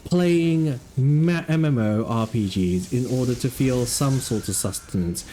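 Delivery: slow, hushed wildlife narrator; nature documentary. Acted.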